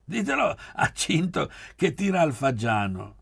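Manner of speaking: high teasing laugh on the repeat. A narrator's reading. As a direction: tease him through laughter. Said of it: "sbottò a ridere Davide".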